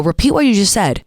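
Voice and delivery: condescending challenge; firm, talking-down order. Shown as a demonstration. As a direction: look down on them as you demand it. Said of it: "Be so condescending".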